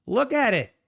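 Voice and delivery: can't believe the chart. Real, not acted. Disbelief at market move.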